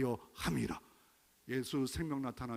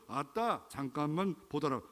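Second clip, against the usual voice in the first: put-on Jeolla accent. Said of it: "전라도는".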